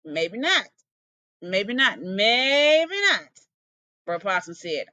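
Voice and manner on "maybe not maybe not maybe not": hissing snake. Acted. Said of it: "Bruh Snake hissed".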